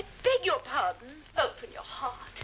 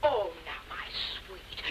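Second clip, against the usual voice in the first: soft, breathy coaxing whisper; gossiping friend hushes the upset wife; 9 semitones lower, 3 dB quieter, slower than usual. Acted. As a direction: hush her like a child.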